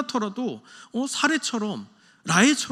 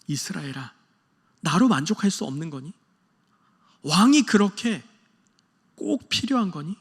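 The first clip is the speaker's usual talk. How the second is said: wistful plea. Retold or imitated. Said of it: "하나님의 애잔한 마음".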